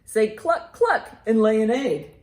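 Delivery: loud, lively picture-book read; reading to children. Acted. Librarian reads a bird book aloud to children, loud and lively. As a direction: read it out big for a room of kids.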